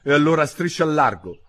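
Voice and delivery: high, loud grumpy send-off; high-pitched huffy bird; grumbling. A narrator's reading. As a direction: grumble it as a cross pigeon. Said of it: "brontolò il piccione".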